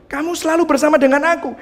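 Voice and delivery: father's words again, fast and pressing; emphatic father. Acted. Preacher repeating the father's words to the church, fast and emphatic. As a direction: push the line quickly to make the point. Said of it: "Papanya ngomong gitu".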